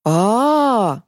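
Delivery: drawn-out aah. Acted. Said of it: "протянул Захар после секундного раздумья".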